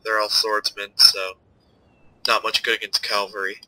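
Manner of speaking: stuffy nasal voice from a cold; blocked nose. Real, not acted. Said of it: "Sorry if I'm nasal, I'm really stuffed up".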